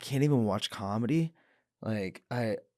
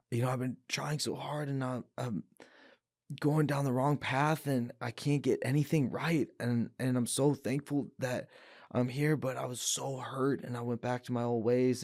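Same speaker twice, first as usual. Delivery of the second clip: higher, choked-up retelling of a breakdown; a touch of crying in a relived confession; retold tearful plea; 4 semitones higher than usual. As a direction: replay the plea near tears, voice lifted. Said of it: "like, bawling, couldn't even catch my breath".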